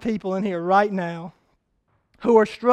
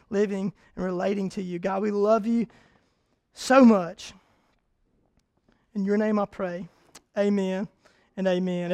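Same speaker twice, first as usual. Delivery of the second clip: closing prayer. Acted. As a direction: pray gently over the congregation.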